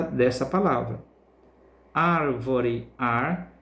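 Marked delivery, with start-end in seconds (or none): 1.9-3.5 Árvore split as ÁR-vo-re, then ar alone; stressed syllable demo. Shown as a demonstration. Teacher showing the tonic syllable, Árvore broken up with ÁR stressed. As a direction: stretch ÁR in Árvore, then isolate ar. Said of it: "pronunciamos com mais intensidade".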